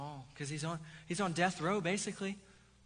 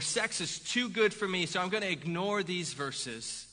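slow, louder and higher, lightly voiced self-justifying sinner; mock indulgent believer; 4 semitones higher, 5 dB louder, slower than usual. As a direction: act out a smug excuse, drawn out. Worldly believer excusing his sins.

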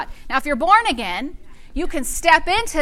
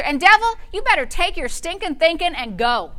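really meaning it; 3 semitones higher than usual. Shown as a demonstration. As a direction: tell it off with authority. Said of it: "mean it".

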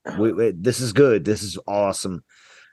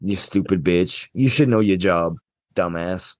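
low, dismissive mock rant; 7 semitones lower than usual. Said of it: "mock rant at the manager".

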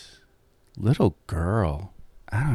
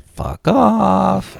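mock dismissive; 8 semitones higher than usual. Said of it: "Kirsten's like".

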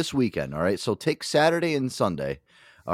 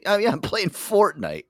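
put-on bratty kid; 9 semitones higher, slower than usual. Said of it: "and be like".

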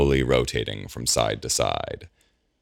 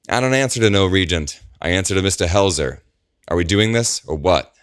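higher, louder defiant mercenary voice; insolent soldier; 6 semitones higher, 5 dB louder than usual. A narrator's reading. Agent defying Gabriel, higher and louder insolent soldier. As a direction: sneer back at the regent, rushed in the middle.

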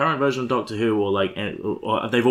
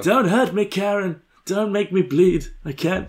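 mock pleading; 8 semitones higher, slower than usual. Mock plea to Karen not to probe.

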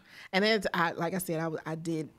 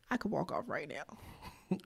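thinking aloud; 2 semitones lower, 8 dB quieter, slower than usual. Retold or imitated. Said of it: "I'm really thinking".

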